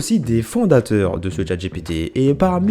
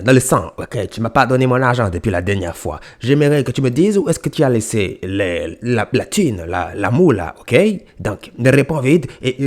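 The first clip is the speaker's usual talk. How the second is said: mock southern tough guy. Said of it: "simuler une bagarre entre personnes du Sud".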